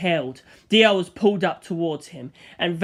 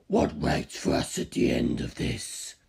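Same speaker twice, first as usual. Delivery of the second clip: much lower, slow whisper; 4 dB quieter, slower than usual. Acted. Carr whispering a grim question beside the narrator. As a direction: murmur the question into the void.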